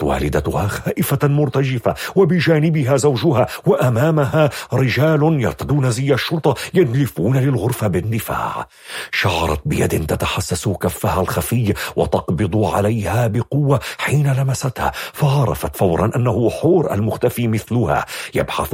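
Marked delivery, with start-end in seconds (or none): none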